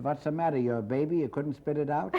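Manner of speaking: mock the customer like a baby; mocking peddler. Peddler mocks the customer who got seeds. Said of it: "he says".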